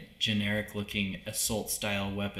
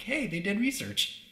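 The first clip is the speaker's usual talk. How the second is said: excited inner quote; 5 semitones higher than usual. Retold or imitated. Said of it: "I'm like".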